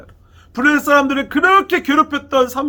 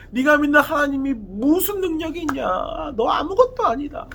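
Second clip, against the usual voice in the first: higher-pitched jeering imitation; mocking taunt; 5 semitones higher than usual. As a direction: act out the Philistines' scornful jeer, pitched up. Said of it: "막 욕하고 침뱉고 놀려요".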